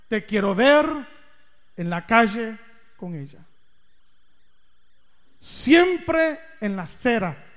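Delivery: a stern dad's loud warning; stern father warning. Retold or imitated. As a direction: lay down the law to your son. Father warns son about bike.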